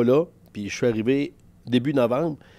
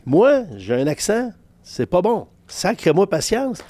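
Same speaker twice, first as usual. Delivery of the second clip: mock protest; 8 semitones higher, 4 dB louder, slower than usual. Mock complaint about his accent.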